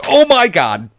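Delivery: high excited scream. Real, not acted. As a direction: yell it out in relief. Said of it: "Sorry for the screaming".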